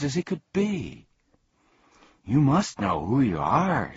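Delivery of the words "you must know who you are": impatient. Acted. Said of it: "said Milo impatiently".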